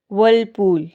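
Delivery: व्हर्लपूल said with the R left silent. Shown as a demonstration. Teacher giving viewers the English word, R silent in व्हर्लपूल. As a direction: say व्हर्लपूल without sounding the R. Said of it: "silent होगा".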